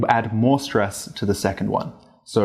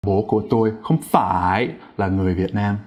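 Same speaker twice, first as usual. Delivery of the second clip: phải stretched with a strong rising ending mid-sentence; plain sentence broken by a hugely stressed phải; unnatural over-stress; 2 semitones lower than usual. Shown as a demonstration. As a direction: overdo the dip and rise on phải. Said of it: "highly unnatural to say something like".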